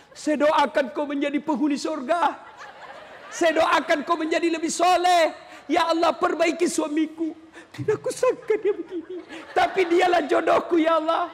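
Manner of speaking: hammed-up tearful prayer, laughing; praying angrily. Wife praying for her husband while angry, hammed-up pleading. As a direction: plead to God over the husband, half comic. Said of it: "marah sambil berdoa".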